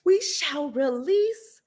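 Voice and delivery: slow, hammed-up royal proclamation voice; mock grand decree. Mocking vengeful supporters as a pompous epic lord.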